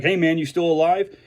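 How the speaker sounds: light teasing check-in among buddies; joking. Retold or imitated. Wrestling buddy teasing a friend, joking tone. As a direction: toss it off as a ribbing joke. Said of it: "we joke".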